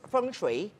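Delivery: "Feng Shui" said as fung-shway; Mandarin pronunciation. Shown as a demonstration. Master answering host, Mandarin "Feng Shui" as fung-shway. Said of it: "ah, Mandarin o Kokogi".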